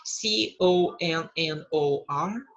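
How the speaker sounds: slow English question and spelled letters; slow model dialogue. Shown as a demonstration. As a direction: spell it out slowly for the class. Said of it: "Então". (diálogo modelo soletrado devagar)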